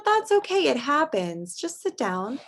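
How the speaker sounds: a lightly voiced, gently reassuring friend; comforting friend. Friend comforting the upset boy after a spill, gentle. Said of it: "and his friend said".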